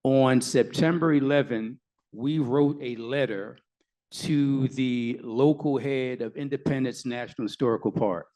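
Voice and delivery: slow, measured lawyer's answer; careful, slow speech. Real, not acted. Lawyer recounting the letter to an audience, speaking slowly. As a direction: pick each word with care, unhurried. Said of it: "so I don't say the wrong thing".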